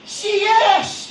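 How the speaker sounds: high, laughing put-on "Si Yes!"; mock muddled answer. Speaker imitating a listener's mixed-up reply, mock voice. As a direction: play the confused listener, half-laughing. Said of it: "Ang sumagot".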